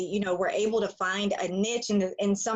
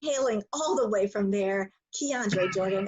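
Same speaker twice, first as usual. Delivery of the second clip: deliberate intro with proud pauses between phrases; announcer re-introduction. Shown as a demonstration. Host redoing guest's school introduction for him, measured announcer delivery. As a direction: roll out the full introduction, phrase by phrase. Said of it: "let me hit a rerun real quick".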